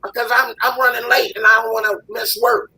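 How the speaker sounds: high, pleading mock voice of a mother asking a favor; mock lazy mother. Man mocking a mother who dumps her kid on him, in a high whiny voice. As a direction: pitch it way up and whine like the mom.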